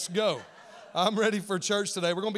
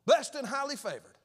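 mock hype, higher and louder; hyped church quote; 7 semitones higher, 5 dB louder than usual. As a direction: imitate fired-up churchgoers. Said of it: "We'd be like".

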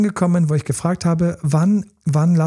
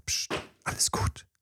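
unvoiced whisper, secretive and gentle; whispered in the ear; 13 dB quieter than usual. Slipping away from the party, whispering to the partner. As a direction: breathe it into their ear so nobody hears. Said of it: "Kurz ins Ohr geflüstert".

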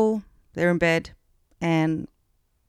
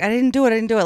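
higher-pitched imitation of protesting innocence; retold protest; 4 semitones higher, 4 dB louder, much faster than usual. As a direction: plead not guilty, lightly acted. Retelling husband protesting his innocence.

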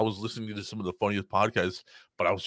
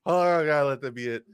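mock pleading; 3 semitones higher than usual. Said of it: "I'm just like".

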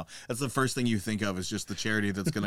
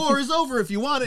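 very high cartoonish singsong; squeaky high mock chant; 13 semitones higher than usual. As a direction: chirp it up high like a silly chant. Mock crowd cheer.

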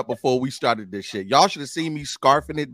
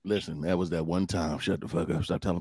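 whispering; 8 semitones lower, 10 dB quieter than usual. Real, not acted. Hushing co-host about private business.

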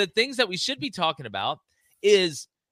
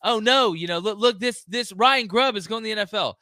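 mock dismay; 6 semitones higher, 3 dB louder than usual. Host parodying fans over Grubb leaving, mock dismay. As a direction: drag out the fake horror. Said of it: "They're like".

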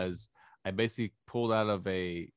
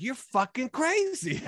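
laughing; 13 semitones higher, slower than usual. Retold or imitated. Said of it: "And I was like".

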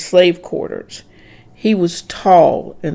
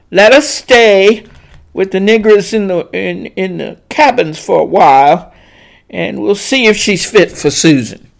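rumbling voice; 2 semitones higher, 6 dB louder than usual. Acted. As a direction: speak like the master. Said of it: "deep rumbling voice".

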